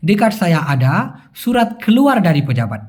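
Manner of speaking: slow, careful Malay sentence; slow teaching read; slow model phrase. Shown as a demonstration. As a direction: read it slowly for copying. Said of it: "এরকমটাই বোঝাইতে".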